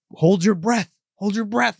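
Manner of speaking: acting out a villain's advice; retold villain's instruction. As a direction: coach a victim, voice lifted. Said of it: "something to the effect of".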